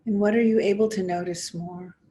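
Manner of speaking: measured guiding voice with long pauses between phrases; guided meditation. Acted. Teacher inviting listeners to notice body and breath, guided meditation. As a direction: invite them gently inward, phrase by phrase, leaving space. Leads a guided mindfulness exercise.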